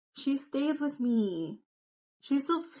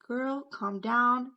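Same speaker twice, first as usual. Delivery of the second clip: calming myself down; 2 semitones higher, much slower than usual. Retold or imitated. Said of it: "sighs, like".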